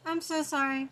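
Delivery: squeaky, loud apology; high apologetic squeal. Real, not acted. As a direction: squeal out a sorry. Apologising after a sneeze.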